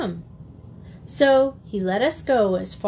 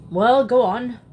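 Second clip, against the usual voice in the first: sulky burglar. Acted. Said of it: "scowled and shuffled".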